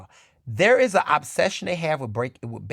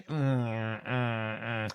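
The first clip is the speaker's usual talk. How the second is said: disapproving hum; 5 semitones lower, 10 dB quieter, much slower than usual. Acted. Hums judgment about Travis's twang.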